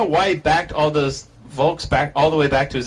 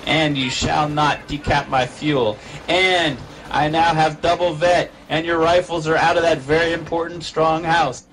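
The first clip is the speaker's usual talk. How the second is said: voicing the commander; 2 semitones higher than usual. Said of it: "says Magpies".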